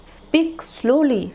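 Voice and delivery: very slow "Speak slowly"; slow model phrase. Shown as a demonstration. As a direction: stretch "Speak slowly" out for the class. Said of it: "আস্তে কথা বলো". (ধীরে "Speak slowly")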